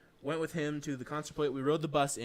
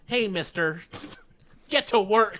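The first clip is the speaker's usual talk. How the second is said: high, loud, slow mock boss laughing; mock stern boss; 7 semitones higher, 8 dB louder, slower than usual. To the slacking power guy, a hammed-up scolding with laughter. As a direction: bark it like a comic foreman. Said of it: "pull my shorts up and be like".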